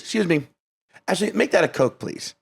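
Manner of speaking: a hint of prissy politeness; fussy customer. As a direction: mimic a picky customer, trailing off on please. Date fussily changing her order.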